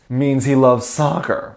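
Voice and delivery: slow, mock-serious deadpan; deadpan joke. Joking to viewers about the army tattoo, mock-serious deadpan. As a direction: say it dead straight, then reveal the joke. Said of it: "I'm kidding".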